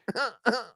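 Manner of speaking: imitated short, high chuckle; Chad. Host mimicking how a fellow comedian laughs, high mock laugh. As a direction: laugh in someone else's silly high chuckle. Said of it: "Chad laughs like it's Pat. Where it's like".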